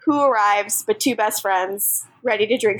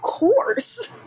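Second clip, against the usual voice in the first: whispered, high and sly; mock whisper; 6 semitones higher than usual. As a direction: whisper it like a guilty secret. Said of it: "And Damon's like".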